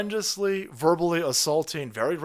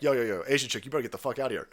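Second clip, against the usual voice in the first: imitating cop; 5 semitones lower, 3 dB quieter, much faster than usual. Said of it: "the cop is like".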